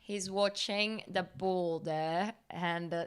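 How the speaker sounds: slow, lightly put-on English accent, commentator style; English accent commentary. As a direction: play an English sports commentator with a hint of the accent, slowly. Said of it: "could you commentate Alexei in English accent".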